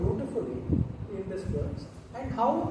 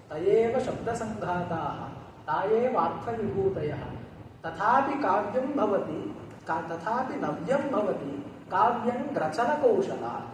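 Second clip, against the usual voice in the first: measured, louder chant of the Sanskrit lines; verse recitation; 4 dB louder than usual. Acted. Teacher recites Emperor Simhabhupala's verse to students, measured chant.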